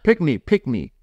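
pickney said PICK-nee, short i, no k before the n; Jamaican word pickney. Shown as a demonstration. Jamaican husband teaching his wife the word pickney. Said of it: "so pickney".

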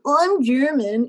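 slow, sheepish mock admission; embarrassed admission. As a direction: own up to it reluctantly, drawn out. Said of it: "it was almost an embarrassment to be German".

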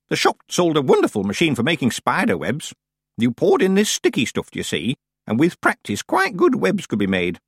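put-on old witch proud of her props; old witch, chatty. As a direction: explain it with chatty enthusiasm. Plays Miss Treason.

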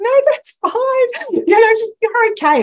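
high, loud retold reassurance; effusive reassurance. Sales girl answering a customer's apology, effusively reassuring. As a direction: wave the apology away brightly and loudly.

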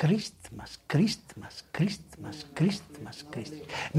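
hushed, monotonous repeated word; mocking repetition. Preacher mimics empty holiday greetings, hushed mocking refrain.

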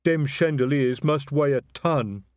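slow, loud troll; an impressed troll. A narrator's reading. Detritus speaking.

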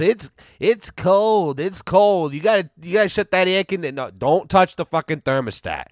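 high, put-on voice of a complaining mom; complaining mother imitation. Son mimics mother complaining about the air conditioner, high fussy voice.

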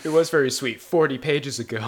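real laughing quip. Real, not acted. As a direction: laugh while teasing.

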